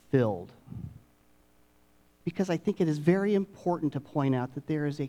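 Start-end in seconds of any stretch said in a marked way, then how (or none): 0.1-0.5 "filled" set apart after a pause, lower and falling; stress on filled. Shown as a demonstration. Preacher stresses a key word to the congregation, emphasized "filled". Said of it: "And I emphasize the word".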